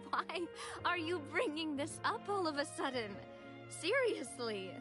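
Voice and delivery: exasperated. Acted. Young woman objecting to sudden burial talk, exasperated. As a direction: push back, thoroughly exasperated.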